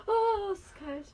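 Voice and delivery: high, loud, drawn-out exclamation; shocked by cold. Real, not acted. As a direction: cry out slowly as the cold hits. Reacts to cold mask on skin. (laut aufschreien vor Kälte)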